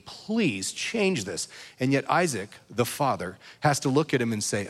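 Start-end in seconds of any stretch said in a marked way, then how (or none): 0.0-1.5 slow, drawn-out mild plea through tears; slow pleading. Retold or imitated. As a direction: beg softly, stretching each word. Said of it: "he starts crying and just pleading".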